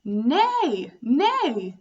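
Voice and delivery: loud neigh, pitch nearer her own; milder horse call for kids. Shown as a demonstration. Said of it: "the animal is that goes".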